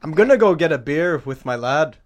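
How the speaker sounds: British accent attempt. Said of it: "He's British".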